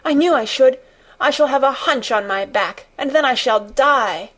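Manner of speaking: put-on high, wailing boy in despair; choked out. A narrator's reading. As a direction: lament it like a doomed child. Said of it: "choked out Colin".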